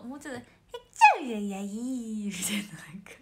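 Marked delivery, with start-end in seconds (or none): 0.4-2.3 loud sneeze burst then a mumbled no-no; imitating Momoka's sneeze. Idol retries her friend Momoka's sneeze, loud burst then muttered. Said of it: "え、もうちょっと".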